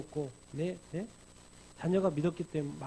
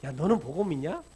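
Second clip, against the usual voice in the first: mild rebuke; 4 dB louder than usual. Acted. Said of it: "꾸짖으신 거죠".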